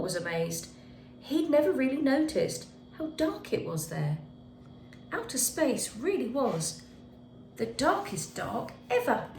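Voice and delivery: put-on gentle storybook narration for kids; reading to children. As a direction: tell it like a bedtime story to little ones. Teacher reads picture book aloud.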